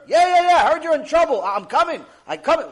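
loud excited yeah yeah yeah; eager friend. Acted. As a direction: burst in eagerly to help.

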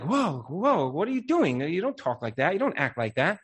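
acting out a shocked telling-off; taken aback. Shocked reaction to someone raising their voice.

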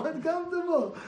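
high, loud sarcastic jab; mocking outrage. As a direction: ridicule the shoe. Retold mocking reply.

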